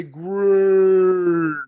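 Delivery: loud, hugely stretched word; exaggerated slow-motion delivery. Shown as a demonstration. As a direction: draw the word out like slowed tape. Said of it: "doing it in slow motion".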